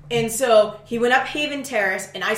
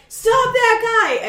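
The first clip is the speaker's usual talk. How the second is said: high, loud and slow; drawn-out shout; 13 semitones higher, 7 dB louder, much slower than usual. Retold or imitated. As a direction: stretch it across the street. Calling to stranger.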